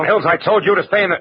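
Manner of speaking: high, startled outburst. Acted. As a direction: caught off guard, breaking off. Marlowe startled by Mills arriving.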